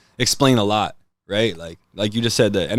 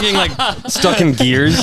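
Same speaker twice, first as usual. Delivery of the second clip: high, louder squeal of a mill worker; mock panic; 9 semitones higher, 4 dB louder, slower than usual. Joking about ghosts, voicing a mill worker in high panic.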